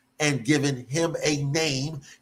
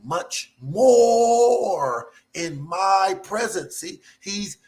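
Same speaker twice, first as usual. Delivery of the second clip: excited; 5 semitones higher, slower than usual. Real, not acted. Preacher stirring up his congregation, excited and high. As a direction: let the excitement lift the voice. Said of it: "I'm a little excited".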